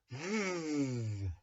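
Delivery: voiceless th-, tongue between teeth, held; th- hissed out with tongue between teeth; exaggerated th practice. Shown as a demonstration. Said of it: "stick your tongue out between your teeth".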